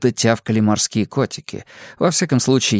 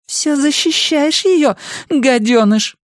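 high, slow, scornful woman; drawn-out question ending in a spat insult; angry accusation; slower than usual. A narrator's reading. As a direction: accuse him bitterly in a high voice.

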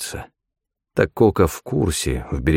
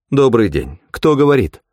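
put-on German accent; 5 semitones higher, 3 dB louder than usual. A narrator's reading. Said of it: "решительный отрывистый голос с лёгким акцентом".

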